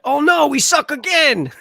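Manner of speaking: slow mildly whiny quote. Retold or imitated. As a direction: drag it out mockingly. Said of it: "quoting the movie".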